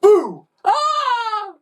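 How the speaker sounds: high, loud sudden boo; shouting boo. A narrator's reading. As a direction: jump out to scare them. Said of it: "before shouting through the gap".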